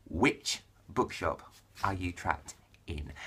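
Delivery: question read-out. Acted. Vlogger reading a tag question to viewers, dramatic read-out. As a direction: set up the scenario with dramatic pauses.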